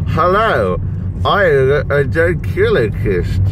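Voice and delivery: slow, lips kept still; ventriloquist voice. Shown as a demonstration. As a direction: speak without moving your lips. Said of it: "they just go".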